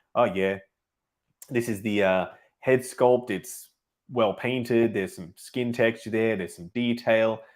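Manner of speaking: dull, one-note, flat monotonous droning narration. On keeping audience interest, describing a head sculpt: slow, monotonous delivery. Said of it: "if I sound really monotonous and slow, like".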